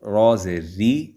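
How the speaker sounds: را زیر ری with a light, thin ree. Shown as a demonstration. Teacher showing kids the thin ri sound in را زیر ری. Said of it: "اب یہ نیچے ہے تو اس کو باریک پڑھا ہے".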